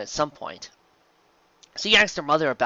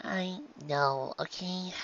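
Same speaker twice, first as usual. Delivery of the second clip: softly; 6 semitones higher, 8 dB quieter, much slower than usual. A narrator's reading. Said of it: "she said softly".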